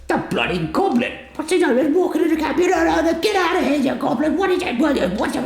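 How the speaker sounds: high, loud panicked shouts at a goblin; yelling soldiers. Acted. Soldiers yelling at the goblin in camp, high panicked shouts. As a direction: shriek it like startled soldiers. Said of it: "people are yelling".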